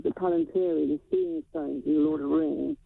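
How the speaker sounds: muffled, as if through a hand; speaking with a hand over the mouth. Real, not acted. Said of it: "I think you're muffled".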